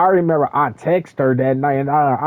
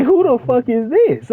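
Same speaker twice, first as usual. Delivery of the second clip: retold outrage; 8 semitones higher than usual. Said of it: "And I'm like".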